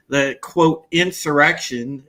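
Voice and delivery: "insurrection" set apart slowly, as if in quotes; slow down and hold "insurrection" at arm's length; heavy air quotes. Real, not acted. Host doubting the official label, "insurrection" said in audible air quotes. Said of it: "it's definitely heavily in air quotes".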